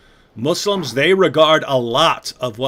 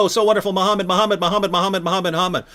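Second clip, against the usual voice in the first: mock adoration; 5 semitones higher, faster than usual. Mocking imitation of devotion.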